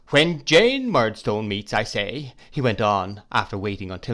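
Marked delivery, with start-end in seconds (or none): 0.1-2.3 insistent. Acted. Husband insists over wife.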